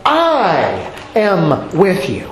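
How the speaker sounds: slow, weight on I; emphatic I am. Shown as a demonstration. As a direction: land each word deliberately. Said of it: "the construction is emphatic".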